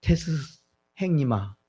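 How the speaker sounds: put-on Gyeongsang-style call to an older brother; Gyeongsang dialect. Shown as a demonstration. Preacher showing how Gyeongsang people address Socrates, in Gyeongsang dialect. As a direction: demonstrate the Gyeongsang dialect, falling at the end. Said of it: "경상도 말로 하면".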